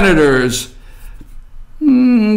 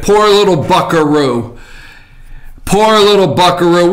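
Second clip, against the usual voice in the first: mock sympathy, dripping with sarcasm; sarcastic mock pity. Real, not acted. Host mocking a teared-up senator, sarcastic mock pity. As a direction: pretend to pity him. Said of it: "a tone of sarcasm".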